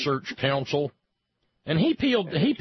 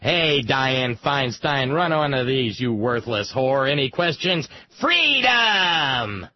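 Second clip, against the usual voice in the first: Rant imitating a rock musician; 3 dB louder than usual. Retold or imitated. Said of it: "and I said".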